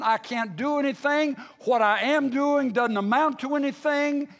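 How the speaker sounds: impassioned pulpit protest; forceful preaching. Acted.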